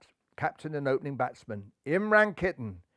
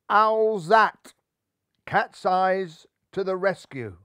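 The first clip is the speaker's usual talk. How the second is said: lightly voiced amused owl; hooting owl, slow and pleased; 4 semitones higher, 6 dB louder, slower than usual. A narrator's reading. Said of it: "put his head to one side and laughed".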